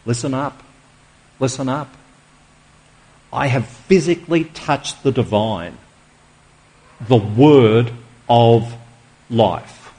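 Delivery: listen up pressed softly, the word of life drawn out slow; slow, soft emphasis. Acted. Preacher voicing John's message to the church, slow and hushed. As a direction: hush the room, then stretch each word. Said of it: "the Holy Spirit, through John, says to us".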